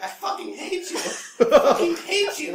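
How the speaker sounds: very high, hammed-up yell; mock furious rant. Girlfriend on an overheard phone call, high mock screaming. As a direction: imitate an enraged caller, dragging the repeat out loud. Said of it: "She's like".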